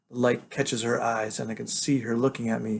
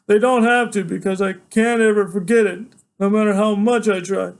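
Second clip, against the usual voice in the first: high, loud, urgent insistence; agitated protest; 9 semitones higher, 10 dB louder than usual. Acted. Son insisting to father that he remembers, agitated loud protest. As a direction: plead your case at a raised pitch.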